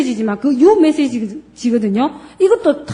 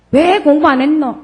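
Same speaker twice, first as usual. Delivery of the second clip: higher, sharper scolding question; scolding why; 4 semitones higher, 3 dB louder than usual. Shown as a demonstration. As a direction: scold the kid for not studying. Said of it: "이렇게 얘기를 하면".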